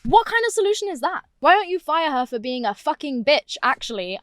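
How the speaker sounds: high-pitched, indignant outburst; passionate outrage. Real, not acted. Student objecting to being pulled from classes, outraged. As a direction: protest it with real exasperation. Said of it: "I really am getting passionate about this".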